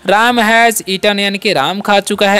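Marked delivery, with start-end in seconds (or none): 0.1-1.2 "he has eaten" spoken very slowly and evenly; slow example. Shown as a demonstration. Teacher modelling an English example for students, very slow. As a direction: spell the sentence out slowly for learners. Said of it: "ऐसा ही बोल सकते हैं".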